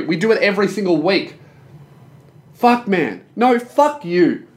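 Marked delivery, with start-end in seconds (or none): 2.5-4.5 mock snap. Mock argument with imaginary guy.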